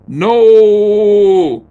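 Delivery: overacted shriek of no; mock scream. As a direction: scream it like a comic heroine. Voicing heroine's scream.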